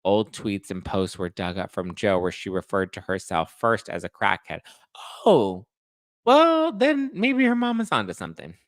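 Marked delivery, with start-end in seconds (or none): 5.2-8.5 mock sarcastic. Mock high sarcastic remark.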